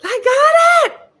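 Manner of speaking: hammed-up gleeful yell, high and stretched out; loud, slow, high mock cheer; so happy. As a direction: shout it like a thrilled husband with a big surprise. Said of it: "He was so happy".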